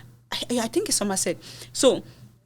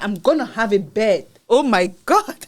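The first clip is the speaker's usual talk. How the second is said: excited; 5 dB louder than usual. Retold or imitated. Joy at getting a bed.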